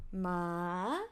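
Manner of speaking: ma said low; tone demo. Shown as a demonstration. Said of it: "And last one".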